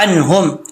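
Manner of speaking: अन्हुम with the ain squeezed in the throat; clear ain. Shown as a demonstration. Teacher repeats for a clear ain, careful recitation. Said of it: "आइन को clear करना है".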